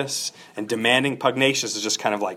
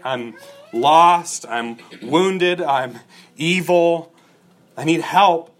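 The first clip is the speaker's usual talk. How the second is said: raised, pleading cry for help, a touch louder; desperate plea; 5 semitones higher, 4 dB louder, slower than usual. Retold or imitated. A Christian crying out to God in desperation. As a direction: plead like someone lost and sick. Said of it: "cried out to him in desperation".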